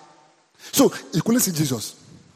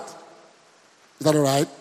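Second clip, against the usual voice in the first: "Is that all right?" stretched out slowly and lower; a lingering, slowed-down "Is that all right?"; slow, drawn-out question; 4 semitones lower, much slower than usual. Shown as a demonstration. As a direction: drag "Is that all right?" out, word by word.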